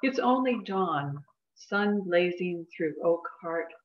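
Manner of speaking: deliberate poem recitation, pausing between lines; poetry reading. Acted. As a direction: give each line of verse its own space. Reads second poem aloud.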